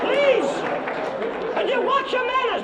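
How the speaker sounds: high, loud call of no over the laughter. Acted. To the laughing audience, a loud mock plea to stop.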